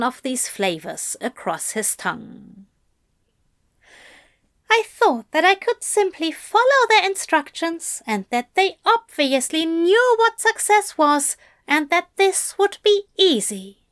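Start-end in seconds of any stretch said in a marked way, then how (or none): 4.7-13.8 raised, higher gentle angel; higher-pitched voice for the anxious angel; Aziraphale voice. A narrator's reading. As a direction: lift the voice for the fussy angel. Aziraphale explains.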